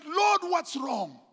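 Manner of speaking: slow, loud anguished cry; crying out to God. Retold or imitated. Preacher retelling his cry to God, slow loud anguish. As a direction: call out to the Lord in despair. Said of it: "And I cried out".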